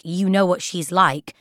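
slow, pointedly disapproving echo; backhanded remark. Retold or imitated. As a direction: say it like a veiled criticism. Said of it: "didn't sound like a compliment".

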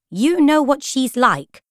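high, slow, sweet echo; Lady Feroza. A narrator's reading. Girl recalling the flower book's remark, sweetly. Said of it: "what Lady Feroza had said".

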